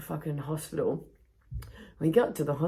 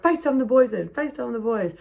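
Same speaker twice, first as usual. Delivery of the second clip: mock plea; 9 semitones higher, 6 dB louder than usual. Paramedic pleading.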